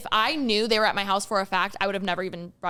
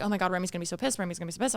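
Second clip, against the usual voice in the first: a softer, worried muttering to herself; muttered panic; 4 semitones lower, 7 dB quieter, much faster than usual. Retold or imitated. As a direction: quietly dread what's coming, half to herself. Panicked inner thought about Remy.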